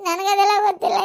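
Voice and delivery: words broken by sobs; grieving daughter sobbing; crying. Acted. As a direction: choke the words out. Breaking down.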